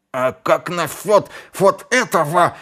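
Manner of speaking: high and loud, pointing it out; wounded assassin crying out; loud accusing cry; indignant cry. A narrator's reading. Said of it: "вскричал Низ".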